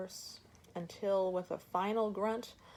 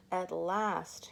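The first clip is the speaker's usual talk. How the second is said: exclaiming. Acted. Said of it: "she exclaimed".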